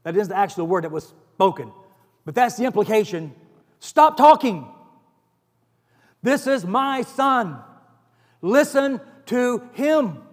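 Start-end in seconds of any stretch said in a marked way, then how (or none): 3.8-10.2 sharp stop, then slow, measured command; a stern divine rebuke, slowing down; commanding voice from heaven. Acted. Voice from the clouds rebuking Peter, commanding and slow.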